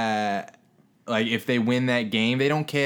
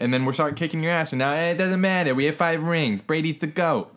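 heated retold rant; 7 semitones higher than usual. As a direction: fire back at rival fans, heated. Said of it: "And I tell them".

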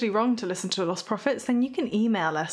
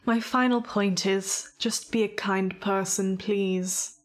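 whispering; slower than usual. Real, not acted. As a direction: whisper it kindly. Sign-off final point.

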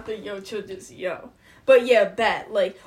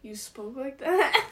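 mock disbelief; 3 semitones higher than usual. Future family reacting in disbelief.

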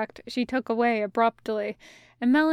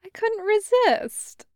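not sorry at all; 10 semitones higher than usual. Acted. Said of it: "not sorry at all".

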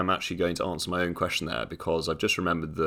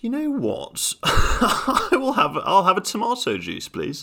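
passenger ordering; 14 semitones higher, 4 dB louder than usual. Retold or imitated. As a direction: savour the order like a treat. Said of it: "And he's like".

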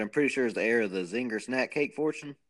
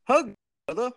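pitched-up, hammed-up catchphrase read; exaggerated name delivery; 11 semitones higher, 7 dB louder than usual. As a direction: draw it out like a wrestler's catchphrase. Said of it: "You gotta say it like that?".

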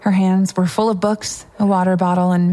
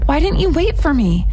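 put-on high, perky girl's voice; cheerful roommate; 9 semitones higher than usual. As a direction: ask in a high, chummy complaint.

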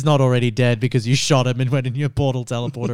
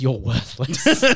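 Oracle voice; 3 semitones lower, much slower than usual. Retold or imitated. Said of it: "And she says".

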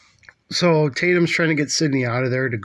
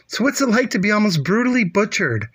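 mock reporter; 8 semitones higher than usual. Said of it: "She's like".

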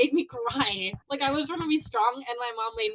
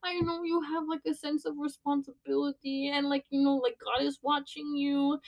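soft, higher-pitched motherly reassurance; imitated comforting mom; 4 semitones higher, 4 dB quieter than usual. Mom reassuring her worried daughter, imitated tender comfort. Voicing mom's comforting speech.

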